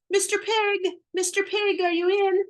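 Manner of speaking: high sing-song call at the door. Retold or imitated. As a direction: call politely but loudly. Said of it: "So I called".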